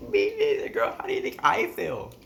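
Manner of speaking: loud, high-pitched mock panic; panicked retort. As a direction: throw it back at a friend, loud and frantic.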